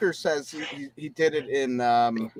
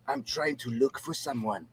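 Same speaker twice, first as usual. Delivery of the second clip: put-on Latino accent; 2 semitones lower than usual. Film hero asks around a bar, attempted Latino accent. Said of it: "if you're doing a Latino accent".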